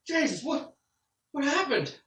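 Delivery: high, loud, alarmed cry; an NPC shocked at the bloodied boy; horrified. Acted. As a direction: recoil in horror as you ask it.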